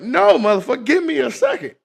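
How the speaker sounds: loud, high frantic protest; high frantic yell. Retold or imitated. Patient yelling at the doctor to wait, frantic high yell. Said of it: "I'm like".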